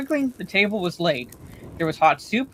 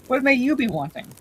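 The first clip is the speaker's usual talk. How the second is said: innkeeper asking; 5 semitones higher than usual. A narrator's reading. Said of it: "he said, bending down".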